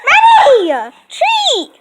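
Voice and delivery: laughing high shout; talking to a dog. Real, not acted. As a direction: call out through laughter. Calling dog while laughing.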